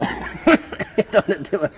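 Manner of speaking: high, loud, slow whine; hammed-up whining friend; whiny impression. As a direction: drag it out like a whining child. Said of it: "No, I don't wanna do it".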